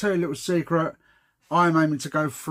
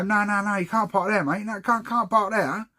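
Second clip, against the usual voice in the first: 1 mock angry geezer; 4 semitones higher than usual. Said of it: "This geezer comes over and starts effing".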